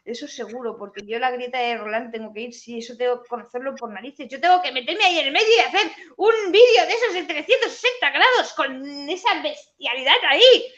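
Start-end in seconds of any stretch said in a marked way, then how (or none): 4.3-10.6 quick, bright and laughing; laughing excitedly. Real, not acted. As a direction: laugh through the words. Excited about filming the crevasse.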